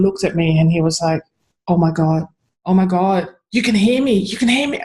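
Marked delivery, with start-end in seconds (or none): 1.7-4.8 amazed. Retold or imitated. Dog discovering his owner can hear him, mildly amazed. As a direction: build from astonishment to lightly voiced excitement.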